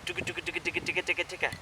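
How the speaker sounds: "dooga" run together quickly and softly; fast meshed dooga. Shown as a demonstration. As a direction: roll "dooga, dooga" into one stream. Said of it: "when I pick it up, it meshes together".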